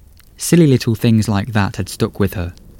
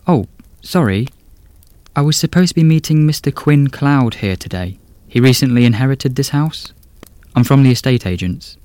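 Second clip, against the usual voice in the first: put-on higher, polite young woman; a nervous young estate agent; 4 semitones higher than usual. Gracie voiced in story.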